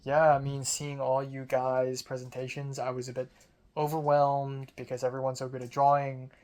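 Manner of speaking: flat deadpan delivery; monotone voice. Retold or imitated. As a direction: say it with no life at all. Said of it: "like, monotone voice".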